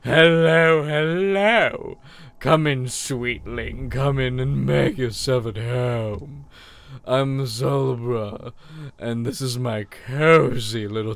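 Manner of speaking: put-on sweet old charm seller. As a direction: coo at the customer like a doting old shop lady. Voices charm seller Salubra.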